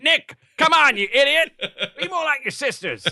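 high-pitched mock scolding; exasperated parent scolding. Parent telling off an annoying kid, mock exasperation.

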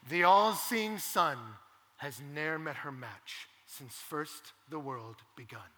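slow lightly hammed-up lovesick line; mock Romeo. Romeo pining for Rosalind, slow and dreamy. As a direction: stretch it out like a swooning lover. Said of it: "And Romeo says".

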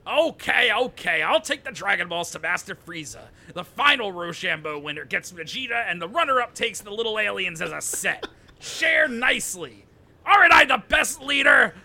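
smug, theatrical team captain; hammy villain leader. Acted. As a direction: lay out the plan like a proud boss. Ginyu handing out targets.

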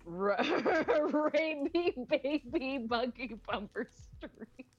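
slow, stumbling tongue twister with a laugh; fumbling through laughter. Shown as a demonstration. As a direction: trip over the words and laugh. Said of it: "out of breath myself after that".

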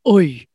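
mock tutorial demo of "oi"; exaggerated Irish "oi". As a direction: overdo the round "oi" diphthong. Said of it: "most important thing in an Irish accent".

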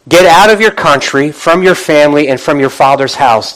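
"Get out of your country" punched, then easing down by "father's house"; emphatic scripture reading. Shown as a demonstration. Preacher reading God's command to Abraham, emphatic. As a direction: hit "Get out" hard, then step down phrase by phrase. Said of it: "you see where I put the emphasis".

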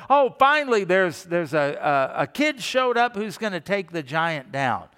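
hammed-up hopeful soldier; excited cheer. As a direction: cheer like rescue finally came. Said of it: "Was everybody going".

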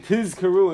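"Tizkaru" with a clearly voiced z; emphasized Zayin. Shown as a demonstration. Teacher showing careful recitation of the Shema, emphasized Zayin. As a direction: stress the buzzing z in "Tizkaru". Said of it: "make sure to emphasize the Zayin".

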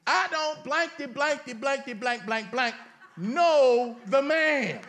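hammed-up bleeped cussing, ending in a laughing loud "know the man"; mock cussing. Preacher mock-voicing Peter cussing out the crowd, laughing. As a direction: play Peter cussing with "blankety" for comedy. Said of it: "we can't make a point unless we cuss it through".

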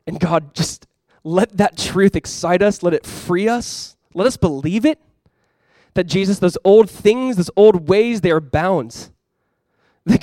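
earnest prayer, rising to fervent lines and easing back to a hushed close; closing prayer. Real, not acted. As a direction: pray over the room, building then settling. Pastor leads closing prayer.

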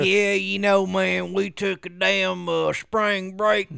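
slow, drawn-out redneck brag; lazy southern tourist; mock redneck tourist. Cohost mocking a spring breaker, slow redneck voice.

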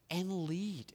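breathy hushed and lead; whispered. Acted. Preacher urging the congregation to lead, whispered. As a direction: drop to a whisper for emphasis.

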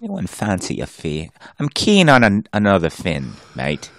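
lightly hammed British voice; casual mock Brit, trailing down on "mate"; British accent. Co-host as British diver wanting another fin, mock British accent. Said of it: "He, he's a Brit".

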